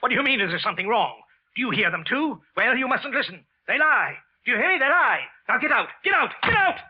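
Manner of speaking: high and loud, climbing to a shriek; hysterical rant. Acted. Wilson raving at the clerk, rising to a shriek. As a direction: build to a crazed shriek.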